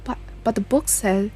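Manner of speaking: lightly acted game dialogue, earnest and dramatic; character dialogue. Player voicing the characters' conversation about the ghost, lightly dramatic. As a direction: voice the characters as you read the story scenes.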